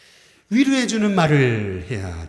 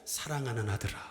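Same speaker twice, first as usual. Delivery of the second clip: softer, tender "사랑하는 아들아"; tender call; 3 semitones lower, 9 dB quieter than usual. Shown as a demonstration. Parent calling a son, tenderly and softly. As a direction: call your son gently. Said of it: "이렇게 부르지 말고".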